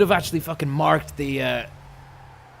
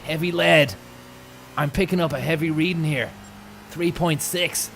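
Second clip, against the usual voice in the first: Eddie Jordan impression; 3 semitones higher, 4 dB louder than usual. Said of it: "Eddie Jordan was like".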